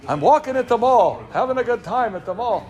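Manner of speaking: put-on Father Time voice. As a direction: play an old-timer on a mall stroll. Impersonates Father Time walking at mall.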